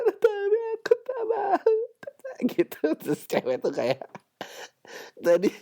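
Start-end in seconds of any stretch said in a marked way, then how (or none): 0.0-1.7 high, slow fake sob; mock crying. Podcaster mimics a dumped boyfriend, high fake sobbing. 1.8-2.5 high squeaky mock sob; fake whimper. Mimicking a crying boyfriend, high mock whimper.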